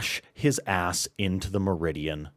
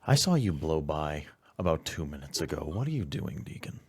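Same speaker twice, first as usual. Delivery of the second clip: irate handler; 4 semitones higher, 5 dB louder, faster than usual. Acted. GM voices irate handler on phone.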